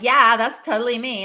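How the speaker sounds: light mock Californian Valley Girl accent; a hint of a bubbly Valley Girl accent. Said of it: "Valley Girl accent".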